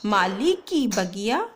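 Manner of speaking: put-on slow, clear poem reading for kids; slow read-aloud. Shown as a demonstration. Teacher reading a poem slowly to pupils. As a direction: read the rhyme slowly, word by word. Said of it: "एक बार वापस से मैं आपको reading करके बता देती हूँ".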